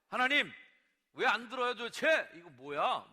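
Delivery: high, very loud acted protest at God; angry outburst. Prophet demanding that God explain his silence, angry. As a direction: shout it up at God in exasperation. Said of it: "막 화를 내요".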